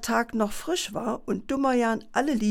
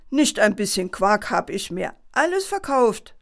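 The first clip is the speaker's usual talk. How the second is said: mild annoyance; 4 dB louder than usual. Acted. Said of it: "entgegnete er verärgert".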